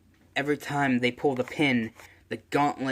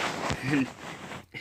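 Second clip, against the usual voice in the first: short breathy laugh; 5 dB quieter than usual. Real, not acted. Laughs after own joke line.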